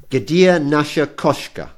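"Gdzie nasza koszka" sounded out slowly by a beginner, gdzie as "kedieh"; clumsy learner pronunciation. Real, not acted. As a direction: spell out "Gdzie nasza koszka" slowly and carefully like a first-week Duolingo learner. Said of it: "your pronunciation is crap".

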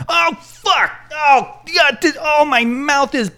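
high, panicked yelp of a burnt mouth; mouth burning from spicy food. Retold or imitated. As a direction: squeal as the chili hits. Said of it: "So you'll bite into it and like".

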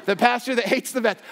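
mock booming accusation across a room; loud, booming, intimidating. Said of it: "I hear this loud, booming voice, intimidating voice".

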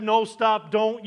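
a hint of a stern parent. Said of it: "if your mother or father would have said".

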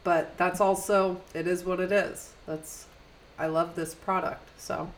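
talking through a mouthful of pretzels; munch pretzels while you speak; chewing while talking. Real, not acted. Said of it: "you can hear me munching on pretzels".

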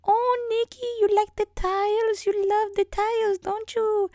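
very high put-on old-lady voice; elderly Romanian dentist. Dentist asks a patient about her new tiles, high squeaky impression. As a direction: imitate the dentist fishing for a compliment, high-pitched. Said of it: "she talks like this".

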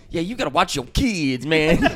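high put-on Black American voice; imitated Black American accent. Bandmate retelling what the comic said, imitated Black American accent. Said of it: "the black voice".

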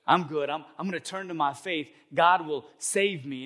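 lightly played stubborn believer; insistent refusal. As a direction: wave off help with confident, stuttered protests. Man refusing neighbor's rescue.

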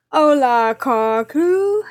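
a faint attempt at a Spanish accent on hola, barely there; failed Spanish accent. Greeting the podcast crew in a failed mock Spanish accent. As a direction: start the email with a half-hearted Spanish accent that doesn't land. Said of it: "I can't even do a Spanish accent".

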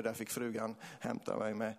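ordinary delivery

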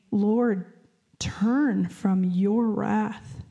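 very slow, drawn-out plea; Moses pleading. Acted. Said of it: "Here is Moses saying".

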